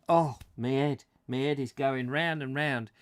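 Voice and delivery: mock hungover groaning complaint; lightly acted morning-after misery; hungover sufferer. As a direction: play at being hungover. Acts someone after a bad night.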